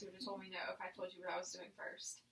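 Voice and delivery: quick whispered aside; whispering. Real, not acted. Aside whisper after quick exam.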